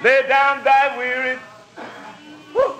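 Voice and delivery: chanted gospel preaching. Acted. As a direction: preach it in a singing cadence. Preacher testifies, chanting cadence.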